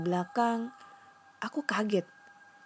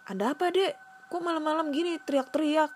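put-on old man voice; 9 semitones higher, faster than usual.

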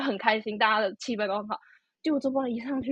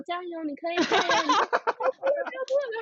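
cheering mom; 9 semitones higher than usual. Retold or imitated. Mother calling up to crying son from below, cheering. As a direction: call up encouragement from below. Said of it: "我妈妈一直在下面就说".

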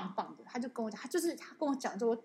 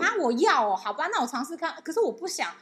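reluctant whine; 4 semitones higher, 5 dB louder than usual. Retold or imitated. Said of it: "我是烦恼说".

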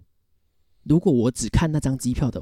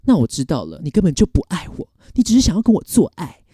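mock anger; 5 semitones higher than usual. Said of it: "他就生气了".

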